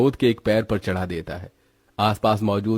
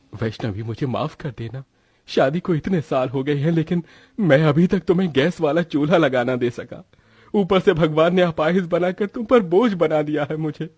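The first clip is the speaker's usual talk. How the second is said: remorseful disabled husband, self-reproaching; 6 semitones higher than usual. Acted. Husband apologising to his wife for being a burden, remorseful.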